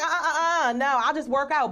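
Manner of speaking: laughing refusal. Retold or imitated. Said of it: "I was like".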